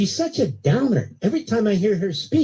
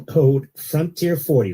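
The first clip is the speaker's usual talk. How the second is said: slow promo code; 4 semitones lower, slower than usual. Shown as a demonstration. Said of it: "repeats the promo code slowly".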